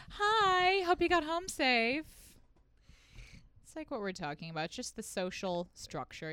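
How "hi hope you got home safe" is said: high, drawn-out sugary check-in text voice; mock check-in. Comic acting out a guy's check-in message, high mock-friendly. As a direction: play a fake-friendly check-in, pitched up.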